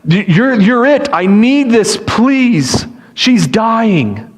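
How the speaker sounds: urgent, imploring appeal; desperate pleading. Acted. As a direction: beg as a last resort. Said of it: "if you've ever been desperate".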